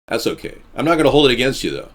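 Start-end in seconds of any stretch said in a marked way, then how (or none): 0.1-0.6 whisper. Real, not acted. Whispered aside after rant.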